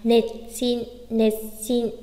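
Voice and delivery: "nệt xin" with nệt dropped and cut short; "nệt xin" with a doubled s; low geminate. Shown as a demonstration. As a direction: hold the s of "nệt xin" before releasing it. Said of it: "Vẫn đọc nặng xuống nhá".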